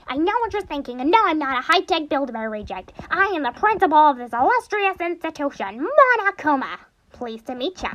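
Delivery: high, grandiose mascot voice; Monokuma impression. Mascot principal introducing himself, high pompous cartoon voice. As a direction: announce yourself pompously, soaring on the name, then dropping. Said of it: "sound like I'm actually Monokuma".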